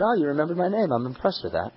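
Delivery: lightly imitated Australian accent; a hint of an Aussie accent. Australian visitor pleased at being remembered, light Australian accent. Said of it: "in this great Australian accent".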